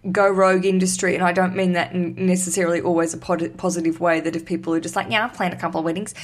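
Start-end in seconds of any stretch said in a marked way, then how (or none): 5.1-6.1 bogan Australian. Acted. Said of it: "had to pick a bogan Australian voice".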